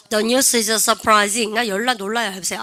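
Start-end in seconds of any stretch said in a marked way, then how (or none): 0.1-1.5 each word drawn out for students to repeat; slow, careful classroom demo sentence; slow model reading. Shown as a demonstration. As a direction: read it very slowly and clearly, like a teacher's model. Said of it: "시작".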